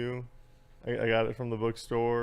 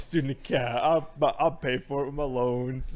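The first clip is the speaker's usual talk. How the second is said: mock carefree spender; 2 semitones higher, 3 dB louder than usual. Student justifying a splurge on the student card, mock carefree. Imitating impulsive bookstore buying.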